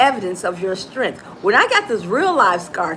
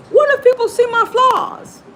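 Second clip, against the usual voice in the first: anxious thinker; 5 dB louder than usual. Retold or imitated. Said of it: "they think".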